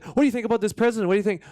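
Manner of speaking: mocking pushy reporter. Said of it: "You said".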